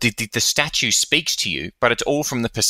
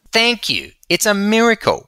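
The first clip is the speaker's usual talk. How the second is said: high, eager agreement; raised pitch, thrilled it's a miracle; excited; 11 semitones higher than usual. Real, not acted. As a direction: leap on the idea with glee. Echoing miracle idea excitedly.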